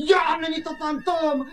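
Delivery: high, drawn-out wail of amazement; astonished cry. Acted. Captive amazed to find his friends, astonished cry. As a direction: cry it out slowly in disbelief. Jim cries out on seeing boys.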